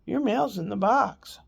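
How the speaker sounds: lightly mimicked robotic mail clerk. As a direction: imitate a blank, robot-like clerk. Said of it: "like he's a robot".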